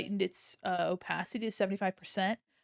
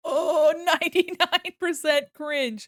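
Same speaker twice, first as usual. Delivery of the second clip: slow, loud laughing outcry; real laugh at a cringe score; laughing shout; 5 semitones higher, 8 dB louder, slower than usual. Real, not acted.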